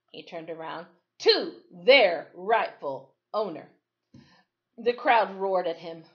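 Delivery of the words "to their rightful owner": shouting deputy. Acted.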